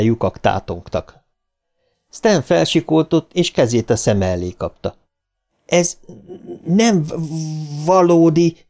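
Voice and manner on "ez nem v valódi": stuttered shout. A narrator's reading. Bill shouts to the terrified Stan, stuttering cry. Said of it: "kiáltotta Bill".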